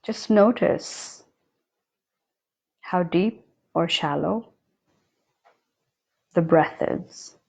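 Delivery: unhurried meditation guide with long silent pauses; guided meditation. Acted. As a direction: guide them calmly, leaving long spaces between phrases. Leads a breathing meditation.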